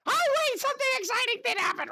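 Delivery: high, fast excited recall; sudden excitement. Real, not acted. Streamer suddenly remembering good news, fast and excited. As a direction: blurt it out excitedly.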